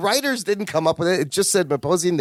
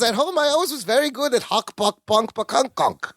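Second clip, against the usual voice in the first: put-on Meeposian accent; 5 semitones higher than usual. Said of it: "Meeposian accent".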